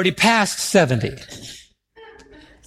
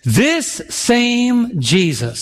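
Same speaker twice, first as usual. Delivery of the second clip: slow emphatic phrase; 4 semitones higher, much slower than usual. Shown as a demonstration. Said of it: "say that with me".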